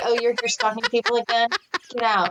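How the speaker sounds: ordinary delivery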